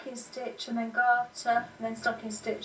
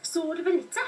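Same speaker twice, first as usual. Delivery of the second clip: podcast title in a higher Cockney voice; Cockney accent; 7 semitones higher, 3 dB louder than usual. Acted. Knitter names a friend's podcast, Cockney accent. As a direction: say it with a Cockney twang. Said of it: "it sounds very Cockney".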